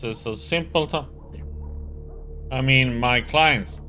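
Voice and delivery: loud, irritated nasal locksmith; annoyed nasally voice. Acted. Voices locksmith character Ryoka.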